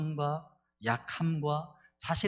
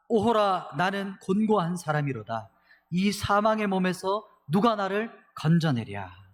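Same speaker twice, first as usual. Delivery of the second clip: loud, slow, anguished lament; anguished cry; 4 semitones higher, 3 dB louder, slower than usual. Retold or imitated. Pastor voicing Paul's despairing cry to the congregation, loud and slow. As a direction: cry out as if in torment. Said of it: "이렇게 절규하는 거예요".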